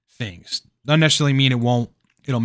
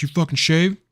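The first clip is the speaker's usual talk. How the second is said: drill sergeant bark; 6 semitones higher than usual. Retold or imitated. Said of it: "drill sergeants be like".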